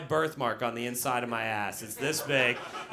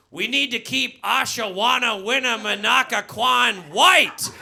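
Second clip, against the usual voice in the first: Wisconsin racist; 7 semitones higher, 7 dB louder, slower than usual. Retold or imitated. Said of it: "they'll say shit like".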